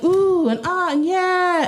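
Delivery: high, drawn-out crowd oohs; exaggerated appreciative poetry-crowd noises; mock appreciative murmurs. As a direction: imitate an audience cooing approval. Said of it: "like, appreciative sounds".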